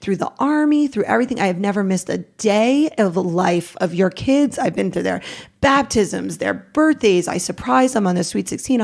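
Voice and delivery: understated replay of yelling back; retold yelling back. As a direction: list grievances as a mild re-enacted protest. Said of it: "first time I yelled back".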